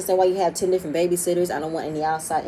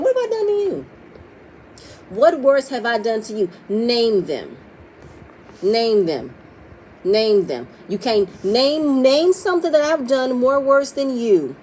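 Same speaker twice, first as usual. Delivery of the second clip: heated, demanding questions thrown back at him; rising confrontation, pitch climbing then slowing down; angry retort; 3 semitones higher, 3 dB louder, slower than usual. Retold or imitated. Mel confronting Martell, demanding he name them, heated. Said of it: "She said".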